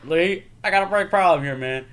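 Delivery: slightly hammed-up, high worried call; Chris Tucker. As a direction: call for help in a high comic voice. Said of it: "Chris Tucker trying to fight".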